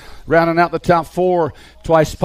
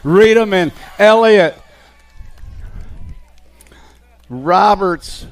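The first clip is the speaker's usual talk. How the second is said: brisk race call, steady and driving; live play-by-play. Acted. Announcer calling the BMX race to the crowd, live play-by-play. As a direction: call the riders through every corner.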